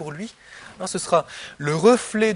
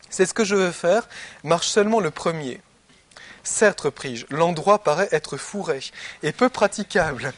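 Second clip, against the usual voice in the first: a slightly louder, measured reading of the dialogue; reading Plato aloud; 4 dB louder than usual. Acted. Teacher reading the Republic to his students, in a measured reading voice. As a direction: read the text to the class with care.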